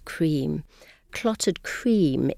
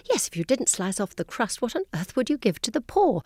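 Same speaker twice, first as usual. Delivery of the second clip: lightly imitated snob, pitch lifting toward the end; mock snobbish; 6 semitones higher than usual. Guide quoting somebody she read on crusts, mildly snobby. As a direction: quote it with a touch of snobbery. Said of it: "Which I thought was very snobby".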